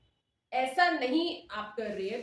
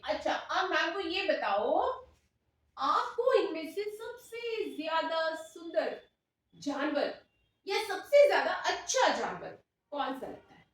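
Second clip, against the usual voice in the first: demo primary teacher; 5 semitones higher than usual. Pretend. Demo teacher greeting and quizzing her class, lilting teacher voice. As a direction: address little children clearly and encouragingly.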